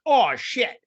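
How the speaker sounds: high, loud startled exclamation; mock alarm. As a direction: act out a shocked yelp. Voicing her alarmed reaction.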